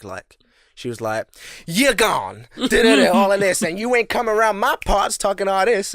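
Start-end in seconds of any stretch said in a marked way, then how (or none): 1.7-5.9 loud, raised mock Black American sass; imitated Black American accent. Sketch manager warning off staff, imitated Black American accent. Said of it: "that's how she talked".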